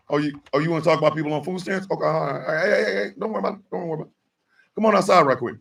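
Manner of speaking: a quiet ominous come outside; low menacing hush. Acted. Acting out a menacing invitation.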